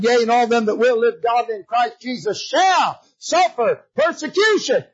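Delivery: shouted Bible verse, pitch leaping at the end; full-force preaching. Acted. Preacher quoting scripture on persecution, forceful preaching. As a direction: proclaim the scripture and hit the last word high.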